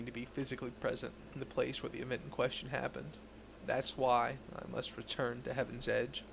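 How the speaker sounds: measured, serious investigator tone; stern Inquisitor voice. Acted. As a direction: read it like a grave inquisitor. Reads Inquisitor NPC dialogue.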